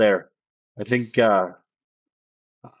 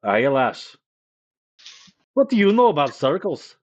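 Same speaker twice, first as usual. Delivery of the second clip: put-on Scottish accent, brisk and teasing; gruff Scottish innkeeper teasing; 5 semitones higher than usual. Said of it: "I've been doing a Scottish accent".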